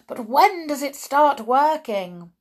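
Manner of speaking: high, loud impatient question; eager cry. Acted. Audience pressing the witch for details, high eager cry. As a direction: call it out from the crowd. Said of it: "cried the audience".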